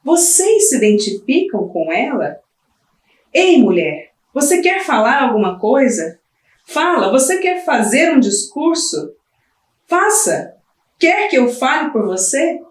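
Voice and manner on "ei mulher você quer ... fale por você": voz provocadora. Acted. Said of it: "A voz, né?".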